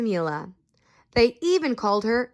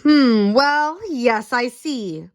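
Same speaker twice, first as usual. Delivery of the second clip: mumbling doctor; 4 dB louder, much slower than usual. Acted. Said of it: "Doctor Bumble mumbled".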